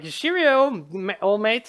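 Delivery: high, loud chummy sidekick greeting; cheery rabbit companion. Acted. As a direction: play a chirpy rabbit greeting its pal. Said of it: "he says".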